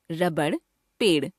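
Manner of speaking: "रबड़, पेड़" ending on a retroflex flap; dotted ड़ flap. Shown as a demonstration. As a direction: flick the tongue for the ड़ in "रबड़" and "पेड़". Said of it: "आइए इनका उच्चारण करके देखते हैं". ("रबड़, पेड़" में ड़ का उत्क्षिप्त उच्चारण)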